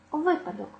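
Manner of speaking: випадок with a high ВИ, ВИпадок; first-syllable stress. Shown as a demonstration. Teacher listing nouns, stress on first syllable. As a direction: hit ВИ at the start of випадок. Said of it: "мають наголос на першому складі".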